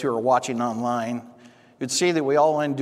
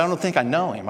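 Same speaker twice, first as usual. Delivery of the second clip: higher-pitched retold doubt; feigned unfamiliarity; 5 semitones higher, faster than usual. Man telling pastor he can't place Colin, puzzled. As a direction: lightly act out not recognizing a name.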